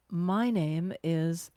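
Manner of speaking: slow heavy recitation of the fake name; slow pretend name. Shown as a demonstration. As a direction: drag the false name out heavily. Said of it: "just pretend".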